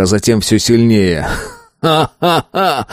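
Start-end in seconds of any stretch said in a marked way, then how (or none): 1.8-2.9 slower, stronger laughter; growing laugh. A narrator's reading. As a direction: let the laugh build. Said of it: "чуть сильнее".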